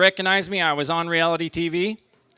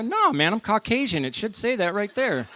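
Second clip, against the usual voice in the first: higher-pitched mock indignant protest; acted protest; 4 semitones higher, 3 dB quieter than usual. Driver protesting to a cop who asked if he's native, mock indignant. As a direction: object in a high pleading pitch.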